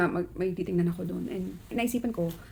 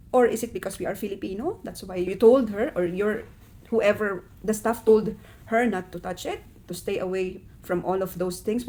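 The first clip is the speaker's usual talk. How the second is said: firm and louder, pressing each question; indignant confrontation; 4 dB louder than usual. Retold or imitated. Mother confronting the store staff, indignant and louder. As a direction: demand an answer, building heat.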